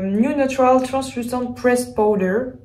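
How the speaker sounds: product name read slowly in a French-accented English; self-conscious attempt at an English accent. Real, not acted. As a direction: try an English accent on the brand name, a bit clumsily. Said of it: "mon accent anglais n'est pas fameux".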